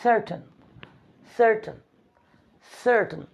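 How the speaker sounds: certain with an S sound at the start; soft C as S. Shown as a demonstration. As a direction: certain spoken with a clear S, not K. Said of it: "We say". (certain को स की आवाज़ से)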